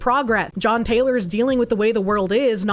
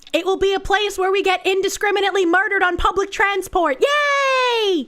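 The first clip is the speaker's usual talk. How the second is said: sarcastic; 8 semitones higher than usual. Pretend. Mocking the host's hopeful line.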